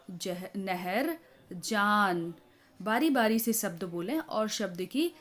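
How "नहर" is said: "नहर" spoken very slowly, each sound drawn out; slow, careful word. Shown as a demonstration. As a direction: pronounce "नहर" slowly for children. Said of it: "इसी तरीके से बच्चों को बोलेंगे". ("नहर" धीरे-धीरे साफ़ बोलना)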